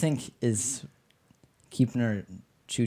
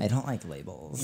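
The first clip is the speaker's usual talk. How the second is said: put-on white girl voice; 3 semitones lower, 8 dB quieter than usual. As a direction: lightly play a ditzy valley girl. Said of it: "that's my white girl voice".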